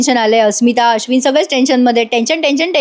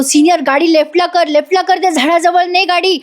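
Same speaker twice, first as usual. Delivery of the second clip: high-pitched mock yell at ordinary volume; retold loud shout; 6 semitones higher than usual. Arjun steering Senior toward the tree, retold shout. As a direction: act out urgent shouted directions. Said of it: "शेवटी अर्जुन जोरात ओरडतो".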